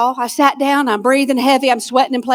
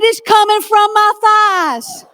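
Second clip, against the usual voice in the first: laughing shout; 6 semitones higher, slower than usual. Retold or imitated. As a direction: proudly yell it through a laugh. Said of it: "I said".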